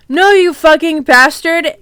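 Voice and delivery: hammed-up yelled insult; mock yell. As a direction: yell it, without full force. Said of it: "yelled Draco at Vampire".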